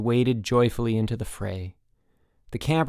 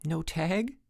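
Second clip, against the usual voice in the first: small, higher, softer question; gulped; 6 semitones higher, 6 dB quieter than usual. A narrator's reading. Mike giving his ruling as referee, gulping. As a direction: shrink back and offer it timidly. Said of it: "gulped Mike".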